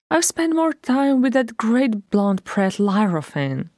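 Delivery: a hint of a cross dwarf; grumbling dwarf. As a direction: complain about the gown. Bonfries frets about prince.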